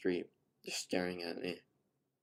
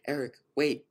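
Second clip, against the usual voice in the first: calling after him; 7 semitones higher, 9 dB louder than usual. A narrator's reading. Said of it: "she said".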